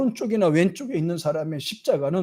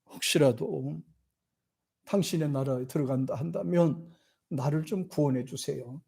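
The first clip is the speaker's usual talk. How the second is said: softer, humble begging; humble plea; 7 dB quieter than usual. Retold or imitated. Repentant thief begging Jesus, soft humble plea. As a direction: quietly ask for mercy. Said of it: "그러면서 말합니다".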